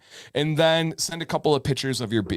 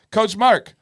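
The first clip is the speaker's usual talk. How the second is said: higher, child's put-on British accent; mock British accent; 11 semitones higher, 4 dB louder than usual. Retelling the daughter greeting her British coach in a British accent. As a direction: chirp it in a kid's fake British accent. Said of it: "Violet goes".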